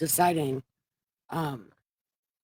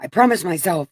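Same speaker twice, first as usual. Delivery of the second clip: promised myself said louder and firmer once the throat is cleared; steadied after throat clear; 5 dB louder than usual. Real, not acted. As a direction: push through the emotion and say it louder.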